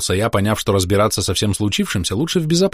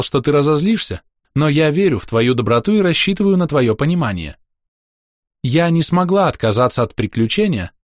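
lightly voiced woman reading her letter; gentle letter voice; 4 semitones higher than usual. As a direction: read it as a fond farewell note. Letter from Mizral read aloud.

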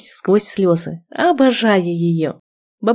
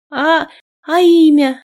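higher, louder stammer; breathless hope; 7 semitones higher, 4 dB louder than usual. A narrator's reading. Heroine eagerly asking the groom's name. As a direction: stumble out the question in hope.

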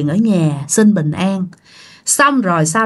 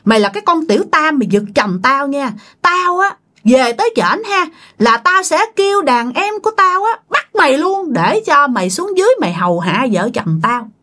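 possessed spirit threatening; 5 semitones higher than usual. Retold or imitated. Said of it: "cái giọng anh hai thấy ghê lắm".

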